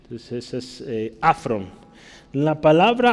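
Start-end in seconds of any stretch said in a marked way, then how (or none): 1.2-1.7 afron with the first-syllable A accented; stress on the A of afron. Shown as a demonstration. Teacher repeating the Greek word, stress on the A in afron. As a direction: say afron, leaning on the opening A. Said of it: "con acento en la A".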